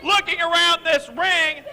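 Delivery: pinched nose voice; clothespin on nose. Real, not acted. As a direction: talk through a pinched nose. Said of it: "you have a clothespin on your nose".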